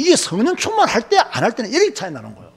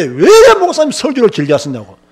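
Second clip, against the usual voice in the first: mock complaint; 5 dB louder than usual. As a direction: imitate a churchgoer griping at the pastor. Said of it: "이렇게 말한다니까요". (교인의 불평을 흉내 내는 말투)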